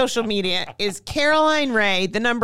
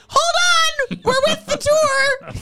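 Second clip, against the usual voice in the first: mimicking the guide; 3 dB louder, slower than usual. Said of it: "She's like".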